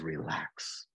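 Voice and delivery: God hushing an overwhelmed believer, very softly; hushed reassurance. Retold or imitated. God soothing an overwhelmed believer, hushed and low. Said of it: "He says".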